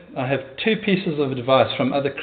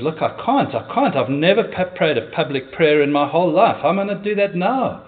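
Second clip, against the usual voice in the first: acted flustered protest; 3 semitones higher than usual. John refuses his panicked friend.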